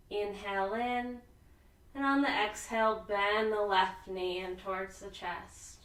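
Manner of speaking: calm, unhurried yoga teacher with long pauses; soothing relaxation-class voice, lingering on the breathing cues; guided sleep yoga. Real, not acted. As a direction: ease them gently toward sleep, phrase by phrase. Leads restful yoga breathing.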